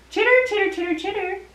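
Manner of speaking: long run of high squeaky chitters; chittering puppet. Pretend. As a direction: chatter on and on like a critter puppet. Angels ask Mary.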